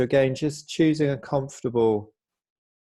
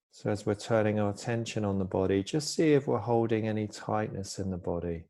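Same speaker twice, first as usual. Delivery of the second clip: calm, unhurried body-scan guidance with long pauses; soft-spoken mindfulness teacher, easing each phrase down; guided meditation; 5 dB quieter than usual. Real, not acted. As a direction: gently guide listeners into stillness, pausing between phrases.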